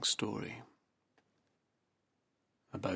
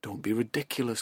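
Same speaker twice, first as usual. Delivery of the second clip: louder, impatient tiger growl; 6 dB louder, faster than usual. Acted. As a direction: brush off the nonsense with a growl. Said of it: "growled the tiger".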